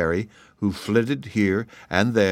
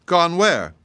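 surprised; 9 semitones higher, 4 dB louder than usual. A narrator's reading. King shocked at escape.

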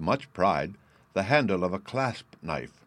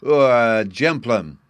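put-on scornful child; 3 semitones higher, 11 dB louder, slower than usual. A narrator's reading. Bruno continues scornful.

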